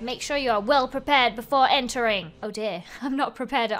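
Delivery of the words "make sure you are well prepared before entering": loud barked halt, then formal warning; a lightly voiced gate guard; stern guard. Guard NPC warns.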